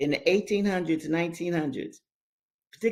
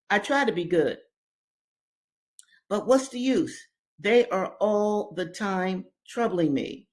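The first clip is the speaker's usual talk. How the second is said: put-on higher, weary young boy; boy's voice; 3 semitones higher than usual. William complains to his sister, boyish and weary. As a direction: complain like a tired twelve-year-old. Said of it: "he said".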